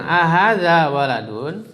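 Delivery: slow "Ahadza waladun" rising at the end; slow model question. Shown as a demonstration. Teacher slowly models the question "Ahadza waladun". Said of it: "pakai A lagi sekarang".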